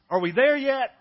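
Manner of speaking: high, loud mock whine of a bored child; whiny kid. Pastor imitating children in the car, loud mock whine. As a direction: play the impatient kid in the back seat, stretched and loud. Kids whining on a car trip.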